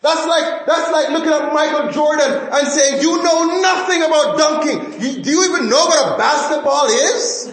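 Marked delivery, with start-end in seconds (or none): 3.0-7.5 high, laughing mock put-down; playful shouted scorn. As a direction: scoff at him, laughing. Mock rebuke of Michael Jordan.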